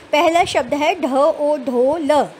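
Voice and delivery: each sound said apart, slowly; teacher spelling syllables slowly for a class. Shown as a demonstration. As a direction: sound out the letters one by one for children. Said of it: "आपने finger साथ साथ रखनी है".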